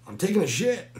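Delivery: high, loud, a touch defensive; loud answer. Retold or imitated. Drunk man lying through the door, loud. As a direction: shout the lie back. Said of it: "So I lied and said".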